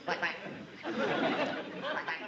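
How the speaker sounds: duck-call imitation. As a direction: quack now and then like a call. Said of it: "sitting here quacking all morning".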